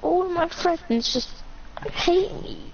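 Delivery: slow, halting hurt, voice giving out; real tearful self-pity, breaking off. Real, not acted. Crying child to friend during an argument, tearful. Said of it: "he's crying".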